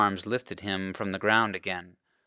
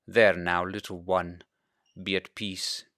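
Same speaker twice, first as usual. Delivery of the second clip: soothing father; 3 semitones lower than usual. Acted. Father calming frightened boy.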